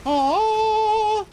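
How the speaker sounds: high, loud groan of dismay; a big letdown aww; disappointed aww. Real, not acted. Big play just missed.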